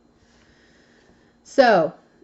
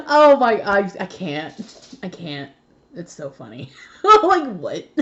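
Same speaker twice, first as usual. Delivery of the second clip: laughing fit; 5 dB louder than usual. Real, not acted. Laughing fit over card.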